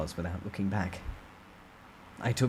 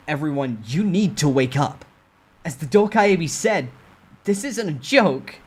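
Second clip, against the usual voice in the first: stern rallying speech; 7 semitones higher, 5 dB louder than usual. Acted. Narrator rouses the survivors.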